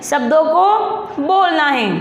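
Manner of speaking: slow, deliberate, words spaced out; slow emphatic instruction. Shown as a demonstration. Teacher repeats the instruction to pupils, slowly. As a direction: say it slowly and plainly to the class. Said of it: "teacher spelling out instruction".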